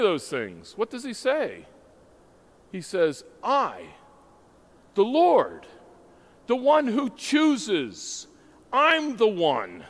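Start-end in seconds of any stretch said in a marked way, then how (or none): 3.4-9.8 God's proclamation. Acted. God declaring himself to Satan.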